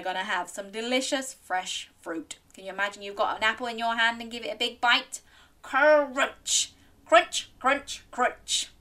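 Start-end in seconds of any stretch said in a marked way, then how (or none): 5.6-8.7 loud, high first crunch, easing off; pretend crunching. Storyteller miming apple bites with children, crunchy voice.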